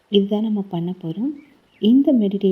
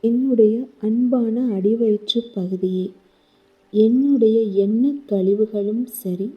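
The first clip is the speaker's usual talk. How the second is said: guided meditation. Acted. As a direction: gently guide the listener through the body, slowing on each thank-you. Leads a guided healing meditation. (மெதுவான, மென்மையான தியான வழிகாட்டும் குரல்)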